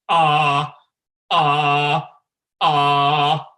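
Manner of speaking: loud, hard, held "ah"; really harsh "ah". Shown as a demonstration. Coach showing singers the other side of the spectrum, really harsh "ah". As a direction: push a harsh tone on one pitch. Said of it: "really harsh sound".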